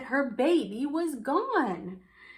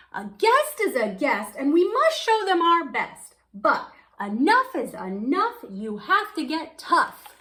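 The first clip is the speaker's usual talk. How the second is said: louder, building to a firm cry; farmer crying out; 4 semitones higher, 5 dB louder than usual. Acted. Farmer fed up with the animals, crying out louder. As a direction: put his foot down and call it out. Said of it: "Farmer Bean Buckets cried out".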